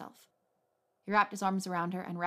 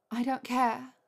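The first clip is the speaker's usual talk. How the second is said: higher and louder, pushing past his objection; insistent repeat; 5 semitones higher, 5 dB louder, slower than usual. A narrator's reading. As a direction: say it again, brushing him off. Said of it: "she said again".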